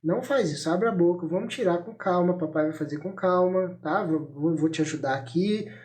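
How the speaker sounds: put-on steady, unhurried parent talking a child through it; calm, no-negotiation parental tone; calm but firm. Shown as a demonstration. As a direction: demonstrate gentle, reassuring firmness without raising the voice. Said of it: "o tom de voz é".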